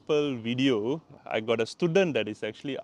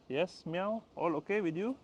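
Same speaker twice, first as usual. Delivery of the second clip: higher and much softer to the cat; soft high coo; soft pet talk; 6 semitones higher, 7 dB quieter than usual. Real, not acted. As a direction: murmur sweetly to the cat.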